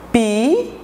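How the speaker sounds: PIPOCA split into pi, po, ca with long gaps; syllable by syllable. Shown as a demonstration. Teacher counting mouth openings for the class, PIPOCA broken syllable by syllable. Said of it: "quantas vezes eu abro a minha boca pra falar".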